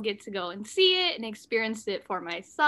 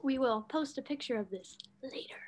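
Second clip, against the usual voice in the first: soft whispered aside; whispering; 9 dB quieter than usual. Real, not acted. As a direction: whisper it like a secret. Aside about their costumes.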